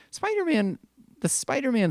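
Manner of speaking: a high exasperated cry of the name. Real, not acted. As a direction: throw up your hands at the name Spider-Man. Ranting about the film location.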